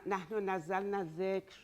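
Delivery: Arabic verse in a Persian accent. Real, not acted. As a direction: recite quickly with Persian vowels. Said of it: "sorry for the Persian accent".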